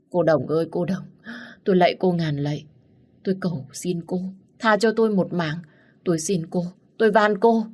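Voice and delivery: bow and beg for her life; frantic begging. Acted. Servant begs Đồng Đồng for her life, frantic pleading. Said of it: "dập đầu lia lịa van xin".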